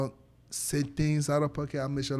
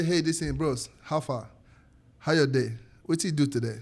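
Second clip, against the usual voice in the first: Nigerian Pidgin greeting. Shown as a demonstration. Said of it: "So when I say".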